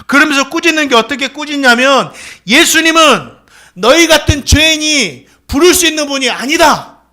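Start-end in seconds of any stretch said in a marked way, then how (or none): 2.5-7.0 scolding. Retold or imitated. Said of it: "이렇게 꾸짖는 거예요".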